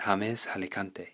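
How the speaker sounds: softly spoken Spanish-accented name; put-on Spanish accent. Shown as a demonstration. Translating his own name for Spain, Spanish accent. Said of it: "I'm putting on this accent".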